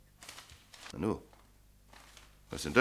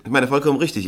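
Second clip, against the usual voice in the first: lauter, deutlicher wiederholt; klarer wiederholt; 2 semitones higher, 5 dB louder, faster than usual. Acted. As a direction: sag es nochmal, damit er es versteht. Wiederholt auf "Wie bitte?" hin. (lauter und deutlicher wiederholt)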